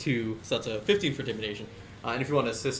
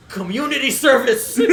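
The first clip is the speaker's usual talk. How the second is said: high, loud, slow through laughter; can't keep a straight face; laughing command; 12 semitones higher, 11 dB louder than usual. Acted. Woodchuck sentences the hostage, laughing loudly. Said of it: "He goes".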